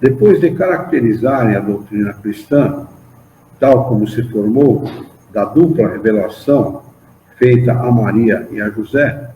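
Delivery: measured, emphatic reading of a doctrinal text; formal study-group recitation with lifted key words; solemn read-aloud. Acted. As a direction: read it out phrase by phrase, pausing between clauses. Reads a religious text aloud.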